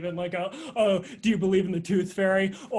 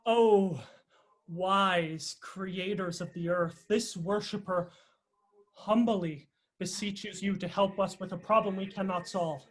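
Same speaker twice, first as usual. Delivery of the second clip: solemn prayer. Acted. Grand pleading prayer to the deity.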